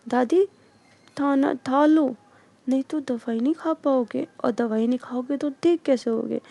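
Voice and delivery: a hint of a small girl urging grandma to eat; little girl coaxing. (नन्ही बच्ची की हल्की सी नकल, दादी को मनाती हुई)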